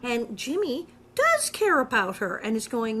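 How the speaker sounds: ordinary talk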